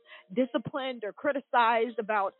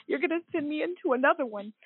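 tearful, higher, partly whispered protest; crying plea; 4 semitones higher than usual. Retold or imitated. Fired worker pleading with coworker on phone, tearfully. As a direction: relive the tearful pushback, half-voiced. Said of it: "I started crying".

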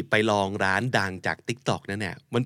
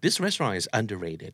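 slow, softer model line; slow soft example; 5 dB quieter, much slower than usual. Shown as a demonstration. Teacher reads the restaurant example slowly and softly. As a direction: say it gently and slowly. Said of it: "example read slowly and softly".

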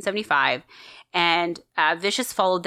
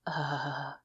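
soft, low dreamy "uh"; swooning sigh; 4 semitones lower, 11 dB quieter than usual. Shown as a demonstration. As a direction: melt into a quiet admiring sigh. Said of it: "just go".

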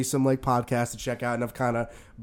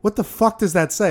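baffled; 7 semitones higher, 5 dB louder than usual. Retold or imitated. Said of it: "And they'd be like".

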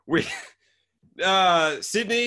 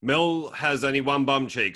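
ordinary talk

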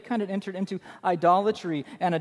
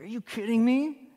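mock outrage; 5 semitones higher than usual. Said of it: "It's like to quake".

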